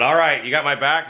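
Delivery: retelling a fired-up buddy check. Retold or imitated. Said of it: "got more and more fired up".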